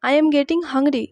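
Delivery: very slow, word by word; slow repeat-after-me. Shown as a demonstration. Teacher asking students to repeat, very slow. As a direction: model it slowly for the class to echo. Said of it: "repeat after me".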